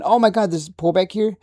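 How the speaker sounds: a cocky mock investor cheering the reversal; mock smug excitement. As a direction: play the trader sure he timed the bottom.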